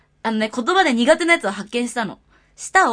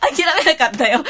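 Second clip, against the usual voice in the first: laughing; 4 dB louder than usual. Real, not acted. Laughing after attempt.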